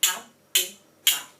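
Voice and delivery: slow, loud, every beat of habitat separate; syllables clapped out. Shown as a demonstration. Teacher to class, beating out syllables slowly and loudly. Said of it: "Clap for me, please".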